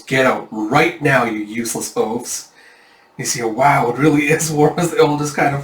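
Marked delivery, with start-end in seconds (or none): 0.0-2.5 slow, fed-up order; getting mad. Acted. Yun throwing his lazy friends out, getting mad. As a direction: grind it out, losing patience. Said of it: "starting to get mad as a vein twitches".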